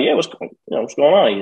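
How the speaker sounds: high, caught-off-guard innocent question; puzzled what's up. Retold or imitated. Stranger taps him, innocent reply.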